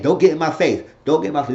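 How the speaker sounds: mock confrontational warning; heated words. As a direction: imitate someone arguing back. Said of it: "they were going words".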